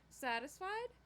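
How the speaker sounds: high, loud challenging question; lashing out. A narrator's reading. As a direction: throw it out as an angry challenge. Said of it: "Karen rarely lashed out at anyone".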